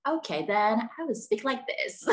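a hint of American reality-star talk; Kim Kardashian. Shown as a demonstration. Student showing the accent adopted for friends, light Kardashian impression. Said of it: "I try to speak like Kim Kardashian".

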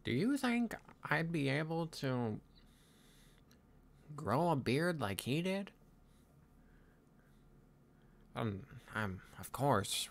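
put-on pensive young Viking leader, halting delivery; lightly voiced Hiccup. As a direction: muse aloud with long pauses, lightly in character. Plays Hiccup in improvised roleplay.

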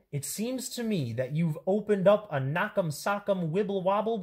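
bouncy picture-book read-aloud; animated children's story reading. A narrator's reading. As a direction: read it to kids, playing up every silly word.

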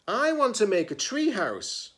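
put-on high, eager child voice; a kid stating what she wants; girl character voice. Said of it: "Meg said".

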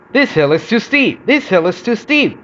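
high-pitched repeated complaint; grumbling. A narrator's reading. Coach hauled uphill behind Edward, grumbling. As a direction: grumble in a sing-song repeat. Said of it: "grumbled the coach".

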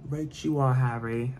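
lightly put-on British accent, mild and playful; a hint of British book-character talk. Reader voicing a Harry Potter book aloud, light British accent. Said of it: "I do the accent and everything".

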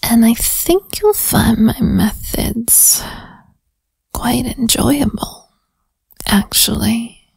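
put-on whispered interrogation with a New Jersey-ish accent; teasing detective grilling a suspect, New York accent. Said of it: "my accent even went a little bit more, like, New York, New Jersey-ish".

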